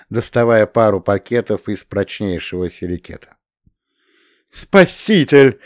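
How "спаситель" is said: slow, high, loud bleating cry; overjoyed bleat. A narrator's reading. Birsky thanks Pyotr for the bags, a slow, high happy bleat. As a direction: bleat with delight like a rescued lamb. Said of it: "проблеял осчастливленный Бирский".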